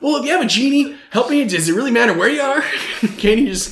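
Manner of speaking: high-pitched, laughing disbelief; amused mock incredulity. Real, not acted. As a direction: poke fun in a high voice, breaking into laughter. Mocking the synopsis while laughing.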